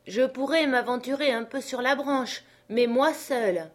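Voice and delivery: high character voice, slowing at the end; cautious servant. Acted. Jupiter offers to go on alone, cautious.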